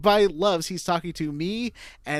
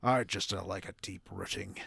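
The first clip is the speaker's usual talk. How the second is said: fading Devon accent; 5 semitones lower, 4 dB quieter than usual. Shown as a demonstration. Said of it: "now I'm losing my Devon".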